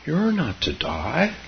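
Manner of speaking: put-on high, slow childish command; child's insistence. A narrator's reading. Keza forbidding Grandma to die, high insistence. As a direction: lay down the law as a child, drawn out.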